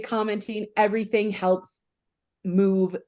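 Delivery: halting, searching for words; fumbling for words. Real, not acted. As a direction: stumble through, hunting the next word. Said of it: "I'm struggling with words right now".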